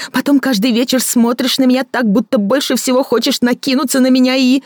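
a bitter woman mocking her lover; Victoria mocking. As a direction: sneer at his fancy words. Victoria raging.

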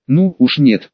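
plain reading voice

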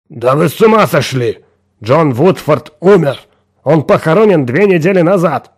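shocked boss blurts out his disbelief; exclaiming. A narrator's reading. Boss on the phone, shocked to hear dead employee, exclaiming. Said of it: "Говард Норс воскликнул".

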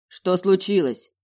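alarmed, slow question; worried question. A narrator's reading. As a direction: ask with sudden worry. Crayton worried asks.

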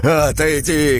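high, loud warning shout. A narrator's reading. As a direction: yell the warning. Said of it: "крикнул он ей".

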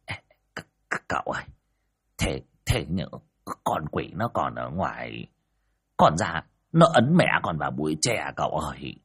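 breathless stutter, voice dropping away in fear; scared old man whimpering to the master; whimpering and stammering. Acted. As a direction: stammer out a frightened plea, near tears. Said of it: "mếu máo".

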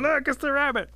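high, loud cry of discovery; screaming. A narrator's reading. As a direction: scream it out to the whole crowd. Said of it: "everybody starts screaming".

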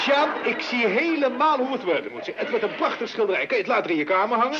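eager, excited. Acted. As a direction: win her over with bubbling enthusiasm. Mother eagerly pitching portrait plan.

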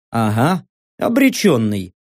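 low, matter-of-fact echo of ОБРЕЧЁННЫЙ; low confirmation. Acted. Narrator answering Saka's doubt, low confirmation.

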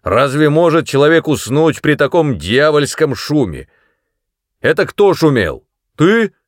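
high, loud, accusing roar; furious shouting. A narrator's reading. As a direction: pounce on Mary with rage. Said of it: "Напустился он на Мэри".

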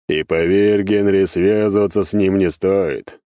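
loud, slow warning from a boss; stern warning. Acted. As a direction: warn the servant off, weighing each word. Demon boss warns his servant. (веское предостережение)

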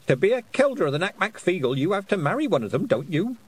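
put-on sly old witch feigning innocence; innocently. A narrator's reading. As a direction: ask it as if butter wouldn't melt. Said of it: "said Missus Ogg innocently".

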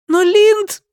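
put-on high loud little boy cry; pleading child. A narrator's reading. The boy cries out to his mother. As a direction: plead with her. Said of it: "boy pleads".

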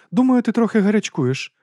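high, hearty aristocratic lady; lady's voice. A narrator's reading. Lady explains dragon stomachs to Vimes. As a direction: lift the voice for the lady.

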